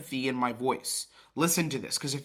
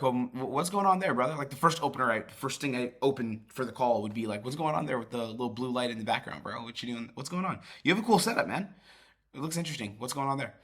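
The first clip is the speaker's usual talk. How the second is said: present, relaxed opener. Shown as a demonstration. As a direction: greet him easily, curious about his setup. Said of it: "I'd be like".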